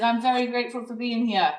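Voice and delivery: badly faked London accent; horrible London accent. Quoting the nice guy from London, in a horrible London accent. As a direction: imitate a Londoner, not very well. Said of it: "that's my horrible London accent".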